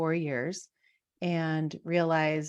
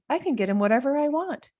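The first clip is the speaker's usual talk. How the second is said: higher, louder, laughing delight; carefree joy with a laugh; giddy excitement; 4 semitones higher, 4 dB louder than usual. Retold or imitated. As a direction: bubble over about the hot dog. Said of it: "I remember sitting there going".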